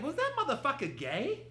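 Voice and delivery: high, loud, brash street voice; ghetto voice. Retold or imitated. Tyra Banks dropping her polish, brash and high. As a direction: let the hood come out loud. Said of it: "the ghetto came out".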